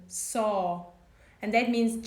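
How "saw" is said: 'saw' with mouth wide open; open vowel. Shown as a demonstration. Teacher showing the open vowel to learners. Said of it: "My mouth is open".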